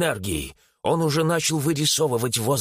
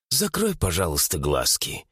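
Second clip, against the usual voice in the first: low, gentle request; soft, smiling; 7 semitones lower than usual. A narrator's reading. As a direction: coax the sister softly, dropping lower. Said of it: "Феликс мягко улыбнулся". (мягко, ласково, пониже)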